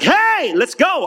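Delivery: high, eager call to action; energetic wake-up. Retold or imitated. Preacher acting out getting up after five hours' sleep, high and raring. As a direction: leap in high on the "Hey", acting full of energy.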